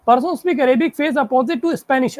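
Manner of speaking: slow, measured clue reading. Shown as a demonstration. Teacher dictating the next clue to the class, slowly. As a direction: read each word out carefully. Reads puzzle clue aloud.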